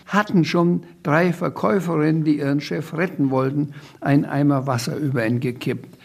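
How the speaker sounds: put-on lively reading-aloud voice for a children's book; story narration. A narrator's reading. Author reading his children's book aloud, lively narration. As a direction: read the chaos scene with relish.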